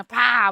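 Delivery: sudden spoken bang for dropped coins; imitated coin clatter. Imagining coins hitting the table, imitated bang. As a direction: voice the crash of coins. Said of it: "E faz um super barulho".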